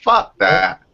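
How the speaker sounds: replaying his inner reaction on the stairs, high and loud; mock outraged cry. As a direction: squeal it in disgust. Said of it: "And I just thought".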